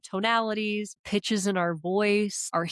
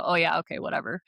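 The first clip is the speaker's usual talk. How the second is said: imitating an uninterested tone; bored; 2 semitones lower, faster than usual. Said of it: "almost like I'm bored".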